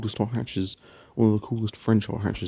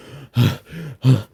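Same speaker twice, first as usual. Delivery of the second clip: breathless sigh; 4 semitones higher, 6 dB louder than usual. Real, not acted. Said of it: "I'm out of breath".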